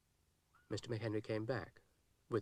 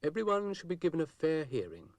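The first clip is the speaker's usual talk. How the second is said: Zebedee's voice; 6 semitones higher, 6 dB louder than usual. A narrator's reading.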